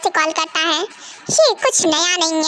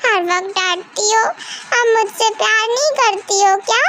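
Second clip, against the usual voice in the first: put-on whiny drunk daughter; 3 semitones higher than usual. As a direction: sulk and whine like a tipsy teen. Drunk daughter whines at mother.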